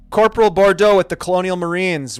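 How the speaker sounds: loud military call. Acted. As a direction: call it through the door, commanding. Announcing herself through the door.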